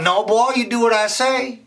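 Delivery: high, loud stern order; stern teacher. Acted. Miss Sarah refuses Raymond, stern and loud. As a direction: lay down the law.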